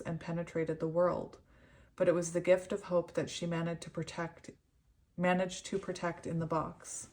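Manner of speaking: even, measured reading voice; composed narration from a book; read-aloud storytelling. Real, not acted. Reads card's story aloud.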